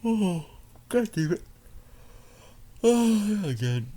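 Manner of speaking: real frustration at an interruption; annoyed outburst. Real, not acted.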